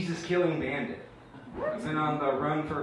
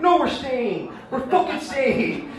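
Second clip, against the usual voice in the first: higher, louder, slower with a laugh; escalating insistence; 12 semitones higher, 7 dB louder, slower than usual. Retold or imitated. Jews in Israel doubling down, louder mock shout.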